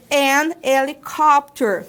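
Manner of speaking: an helicopter with the H dropped; an before silent h. Shown as a demonstration. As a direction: start helicopter on the E sound. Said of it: "Eu não leio o H".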